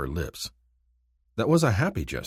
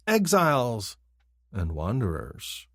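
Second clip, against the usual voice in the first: sing-song taunt; 4 semitones higher, slower than usual. Acted. Kinfar keeps taunting.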